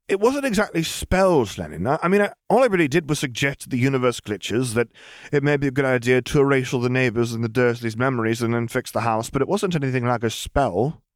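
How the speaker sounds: put-on clarify like a flustered child; girl voice. Lily clarifies.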